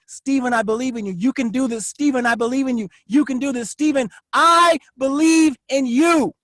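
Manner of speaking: steady, sincere pep talk to himself, rising at the end; self-encouragement. Shown as a demonstration. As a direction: tell yourself you believe in you. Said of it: "That's how I do it over and over".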